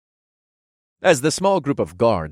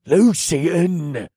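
a touch higher, fed-up correction; exasperated; 8 semitones higher, 4 dB louder than usual. Acted. Escort naming the dead son, exasperated. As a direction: spell it out impatiently. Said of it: "explained in an exasperated voice".

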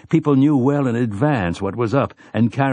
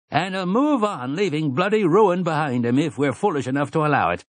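roaring; 8 semitones higher than usual. A narrator's reading. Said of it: "Eben Took roared".

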